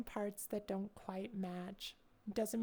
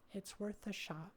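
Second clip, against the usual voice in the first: quiet; 7 dB quieter than usual. Real, not acted. Repeated much softer.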